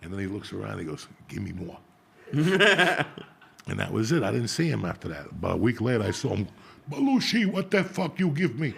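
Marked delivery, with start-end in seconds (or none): 1.3-1.8 soft, low ask for more; hushed request. Retold or imitated. Nick quietly asks the smokers for more, hushed. 6.9-8.7 higher, imitating the owner's outburst; mock complaint. Owner calls out the teen about the hash, mock outrage.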